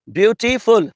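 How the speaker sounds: beautiful in three separated beats, beau, ti, ful; syllable by syllable. Shown as a demonstration. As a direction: pull beautiful apart into its syllables. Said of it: "I can break it in two".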